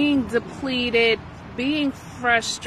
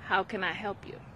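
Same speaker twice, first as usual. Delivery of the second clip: calm responding; 3 semitones lower, 10 dB quieter, faster than usual. Shown as a demonstration. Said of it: "you breathe, and then you say".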